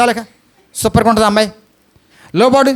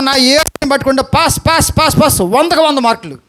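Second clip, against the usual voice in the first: excited repetition; 4 semitones higher than usual. Real, not acted. Preacher repeating pass for emphasis.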